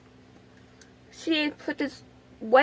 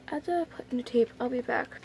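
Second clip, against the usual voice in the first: soft unvoiced whisper; 3 semitones lower, 7 dB quieter than usual. Real, not acted. Stepping away from the camera, quick whisper. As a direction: toss it off under the breath.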